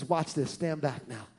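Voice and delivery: low, hushed store owner; a lightly voiced hushed owner; hushed warning. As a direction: owner hushing the lady before the show. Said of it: "he says".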